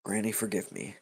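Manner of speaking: softly muttered little plea; hushed aside, not a full whisper; under his breath. Acted. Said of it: "he whispers under his breath".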